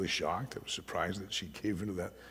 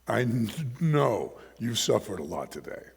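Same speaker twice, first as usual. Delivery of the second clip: gentle father. Retold or imitated. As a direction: let her off gently. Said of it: "Came back in and said".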